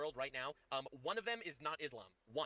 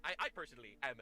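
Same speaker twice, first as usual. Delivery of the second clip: mock shock; 5 semitones lower than usual. Sarcastic feigned shock.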